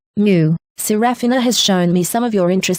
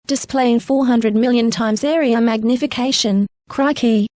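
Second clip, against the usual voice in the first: higher-pitched Aussie slang delivery; Australian accent; 4 semitones higher than usual. Acted. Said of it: "Drop your Aussie".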